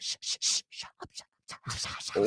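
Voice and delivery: urgent whispered shushing; panicked whisper. Retold or imitated. Panicked owner shushing puppy at dinner, urgent whisper. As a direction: hiss it so no one hears. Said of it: "I was like".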